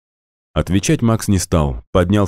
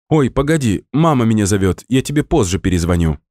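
excited; 6 semitones higher than usual. A narrator's reading. Natasha breaking off excitedly.

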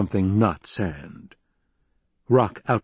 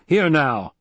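sharp, loud bark of a rebuke, pitched up; barked warning; 6 semitones higher, 3 dB louder than usual. A narrator's reading. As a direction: snap it out to cut the guest off. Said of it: "Halleck barked".

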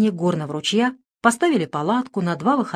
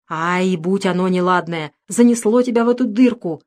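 громкое ворчание; брюзжи себе под нос, но слышно; ворчливо; 3 dB louder than usual. Acted. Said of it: "ворчал Федька". (ворчание Федьки над ямой)

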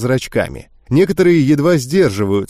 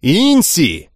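losing patience; 4 semitones higher than usual. Acted. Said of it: "Лисанна уже не выдержала".

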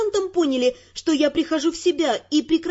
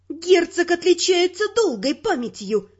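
venomous; 3 semitones higher than usual. Acted. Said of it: "Мой голос источал яд".

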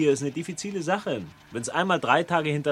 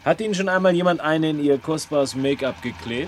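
1 threatening; 4 dB louder than usual. Acted. Threatening to slap rival.

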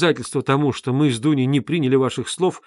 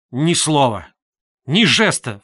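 sharp cry; 7 dB louder, slower than usual. A narrator's reading. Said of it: "вскрикнул Раскольников".

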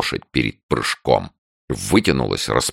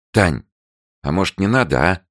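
whining; 7 semitones higher than usual. A narrator's reading. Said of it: "заскулила она".

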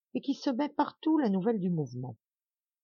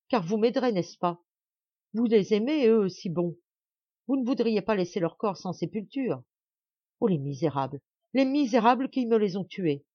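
high, loud frantic pleas; frantic pleading; 4 semitones higher, 3 dB louder than usual. Acted. Mother begging servants to search the battlefield, frantic. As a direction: beg them in wild grief, louder. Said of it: "avec l'accent du plus affreux égarement".

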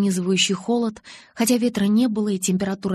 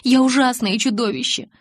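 higher, louder, near hysteria; hysterical cry; 5 semitones higher, 6 dB louder than usual. A narrator's reading. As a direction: cry out in self-loathing. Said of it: "сбиваясь на истерические нотки".

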